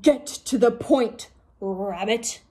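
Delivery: slow impatient command; impatient order. Acted. King impatiently ordering the rabbit, slow and stern. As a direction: cut her off impatiently. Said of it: "ordered the Dragon King".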